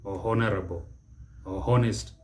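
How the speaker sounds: honorable and honest with the h sounded; mispronunciation. Shown as a demonstration. Teacher quotes common mistakes, mispronounced with sounded H. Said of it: "Don't mispronounce it".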